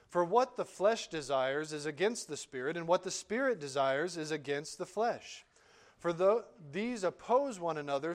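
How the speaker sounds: measured, solemn Bible reading; scripture reading. Acted. Reads Galatians aloud.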